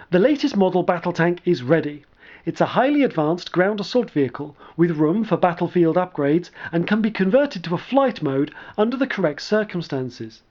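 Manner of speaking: a hint of an eager young lieutenant; lightly voiced young lieutenant. Sark, young lieutenant reporting.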